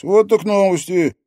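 put-on loud, high, excited young man; amazed and eager; exclaiming. A narrator's reading. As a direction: burst out with eager curiosity. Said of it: "воскликнул Алекс".

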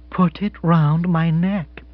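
slow, steady repetition; calm repeated request; repeated gently. Acted. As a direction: say it again, calmly insistent. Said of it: "repeated Missus Spotsworth".

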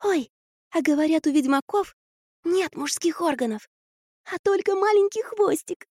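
high, giggly gossip; giggly prank whisper. A narrator's reading. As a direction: giggle it as a secret. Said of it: "хихикая прошептала Орфа". (хихикающим шёпотом на ухо)

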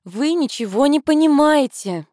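theatrical exclamation, high and slow; hammy stage actor. A narrator's reading. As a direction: melodramatic stage cry. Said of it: "театрально воскликнула".

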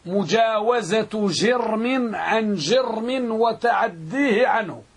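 slow, measured definition for note-takers; deliberate, slow classroom dictation. Shown as a demonstration. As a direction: dictate it word by word, drawing out the syllables. Teacher dictating a definition slowly.

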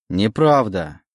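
shouted denial. Acted. Legion denies it, starting to shout. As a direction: snap back at him. И Легион перешёл на крик.

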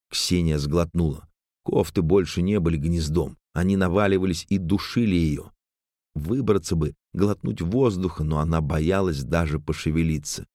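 ordinary delivery, nothing marked

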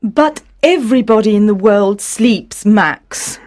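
high, exasperated mother's protest; pleading. Acted. Mother argues with sleepless son, pleading. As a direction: reason with him in high-pitched distress.

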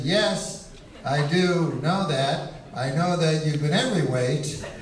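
teasing answer breaking into laughter; dry jab that cracks into a laugh; laughing reply. Retold or imitated. Comic telling his friend he's been every weight, laughing. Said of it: "And I said".

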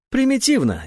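scornful. A narrator's reading. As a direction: sneer the verdict. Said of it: "не могла успокоиться Урсула".

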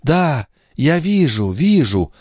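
put-on young wife, faint smile. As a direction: smile weakly as you see it. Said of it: "слабо улыбнувшись".

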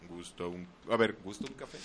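low, soft creepy funeral-home voice; spooky undertaker voice. Retold or imitated. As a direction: creep up from behind, low and hushed. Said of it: "tú de repente por atrás".

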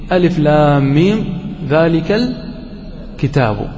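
slow recitation trailing off softly on الكتاب; Quranic recitation. Shown as a demonstration. Teacher quoting the opening of al-Baqara, recited slowly. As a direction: recite the letters slowly and evenly. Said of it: "قال الله عز وجل من القرآن".

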